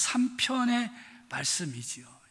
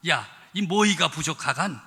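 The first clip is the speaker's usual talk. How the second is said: "모이가 부족하간" said again with a leading "야", louder and emphatic; a Pyongan "부족하간" pressed harder the second time; Pyongan dialect; 4 semitones lower, 3 dB louder than usual. Retold or imitated. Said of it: "평안도 버전은 어떻게 됐나?".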